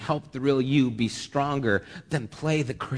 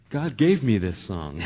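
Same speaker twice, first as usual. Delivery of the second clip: joking imitation, breaking into laughter; laughing mock quote; 3 semitones lower, 3 dB louder than usual. Preacher imitating a hopeful church singer, laughing.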